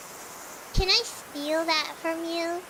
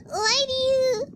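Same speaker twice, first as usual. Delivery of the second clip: high-pitched, helpless giggling through the words; really cracking up while asking; laughing; 4 semitones higher than usual. Real, not acted. Streamer cracking up at pearl-clutching, laughing question.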